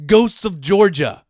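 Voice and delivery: "Ghosts of Georgia" dragged out slow, loud and high; exasperated. Real, not acted. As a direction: spell out "Ghosts of Georgia" in disbelief, each word slow and heavy. Exasperated repeat of the title.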